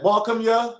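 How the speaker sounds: high, loud Southern Louisiana call; Louisiana dialect. Retold or imitated. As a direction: call out in thick Louisiana talk. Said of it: "I could be like".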